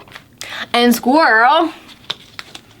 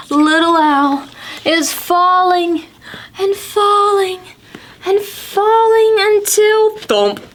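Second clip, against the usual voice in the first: each falling pitched higher and higher; building falling; 7 semitones higher than usual. A narrator's reading. Narrating the owlet's fall to the kids, rising suspense. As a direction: let the falling climb in suspense.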